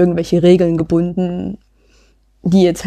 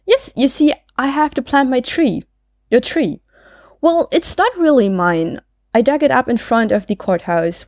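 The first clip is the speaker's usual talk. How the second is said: lightly voiced Maud, cheerfully earnest; 3 semitones higher than usual. Maud explaining the borrowed tree to policeman, breezily. Reads Maud's part in dialogue.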